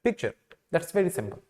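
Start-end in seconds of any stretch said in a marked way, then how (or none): 0.1-0.3 picture said short, ending in a light "cher"; quick picture with no rolled R; correct, soft R. Shown as a demonstration. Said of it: "we pronounce it picture".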